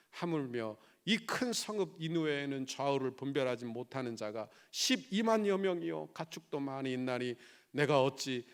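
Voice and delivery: measured Bible reading, emphatic at first; scripture reading. A narrator's reading. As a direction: read the verse formally, slowing into the final question. Reads the Bible verse aloud. (또박또박 성경을 낭독하듯)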